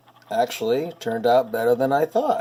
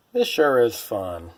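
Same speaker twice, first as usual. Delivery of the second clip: sarcastic. Real, not acted. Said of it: "that's sarcasm, by the way".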